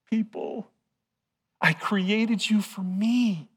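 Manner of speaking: tender pleading God voice; voicing God. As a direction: plead gently as God calling his people back. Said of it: "he was saying".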